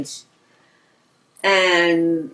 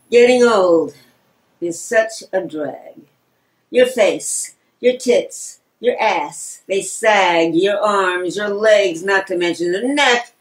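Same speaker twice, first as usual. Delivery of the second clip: measured, rhythmic reading of a rhyme; wry poem about growing old; comic verse recital; slower than usual. Acted. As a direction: recite it in beats, drawing out line ends.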